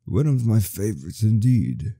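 lightly voiced old storyteller; a hint of a kindly old man. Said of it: "That's that old man voice".

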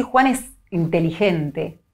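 slow, ironic "Juan es inteligente". Shown as a demonstration. Neuropsychologist demonstrating, slow mild irony. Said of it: "estoy siendo un poco irónica".

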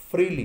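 "फ्रीली" said firmly as "FREE-lee"; correct pronunciation. Shown as a demonstration. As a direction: model "फ्रीली" loudly with f and r joined. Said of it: "क्या बोलेंगे". ("फ्रीली" का सही उच्चारण, ज़ोर से)

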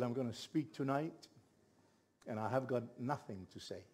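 low, soft, dejected retelling; despondent. Retold or imitated. Telling his wife he has nothing to preach, despondent. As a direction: quietly recall feeling defeated. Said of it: "I was so despondent".

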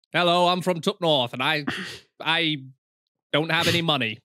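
lightly put-on northern English voice; mock a plain northern English speaker; northern English accent. Shown as a demonstration. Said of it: "is that what a northern accent sounds like?".

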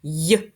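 teacher naming the third sound; isolated sound. Shown as a demonstration. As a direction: give й on its own as a sound model. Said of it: "Третій знак".

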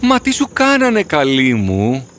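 pained disbelief, stretch the last words; shocked concern. Acted. Horse seeing his battered friend, shocked and tender.

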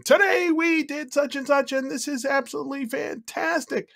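very high-pitched presenter cadence; exaggerated high sample read for a voice style; recorded cadence demo. Shown as a demonstration. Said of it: "so I recorded myself saying".

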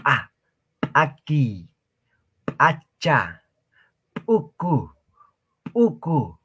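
"A, aquí, acha, uku" con una p reventada al inicio; p explosiva. Shown as a demonstration. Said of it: "como si nosotros estaríamos haciendo reventar o explotar algo". ("aquí", "acha" y "uku" con p eyectiva, como estallidos)

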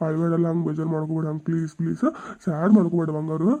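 low, softened consoling; coaxing, voice kept down; tender pleading. Acted. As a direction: plead gently with an upset sweetheart. Husband pleads with upset wife.

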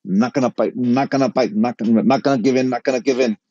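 repetitive self-coaching chant; muttered mantra. Retold or imitated. Son steeling himself as his dad approaches, chanted mantra. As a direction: repeat it like a mantra to yourself. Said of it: "doing a little mantra to myself".

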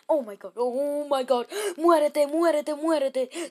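loud, high frantic yelling; excited game yell. Real, not acted. Kid gamer yelling at a game enemy, loud and frantic. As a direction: yell at the enemy in the heat of the fight.

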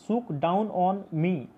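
"Shook down on me" slowly, each vowel stretched; slow, drawn-out vowels. Shown as a demonstration. Teacher showing the assonance in "Shook down on me", slow and drawn out. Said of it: "इसका उच्चारण भी vowel के जैसा".

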